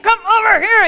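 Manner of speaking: high, loud call across the line; calling the kids. Retold or imitated. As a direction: mom calling kids over. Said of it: "And so I'm like".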